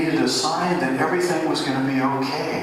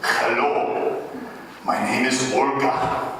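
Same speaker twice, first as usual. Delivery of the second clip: a light, hammed-up Russian accent as a movie villain; 2 semitones higher than usual. Preacher teasing the congregation with a mock Russian accent. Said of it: "it's the Russian accent that makes them so scary".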